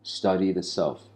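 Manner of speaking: slow, solemn quotation; quoting Dogen. Retold or imitated. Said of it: "As Zen Master Dogen says".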